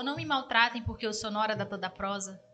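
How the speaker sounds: softly hurt, downcast appeal; mock sad plea. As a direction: plead softly like a wounded customer. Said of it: "com meu coração bem entristecido".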